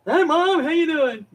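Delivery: high, sweet pet voice; cat voice. Pretend. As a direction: speak as the cat greeting mom. Voicing her cat greeting her.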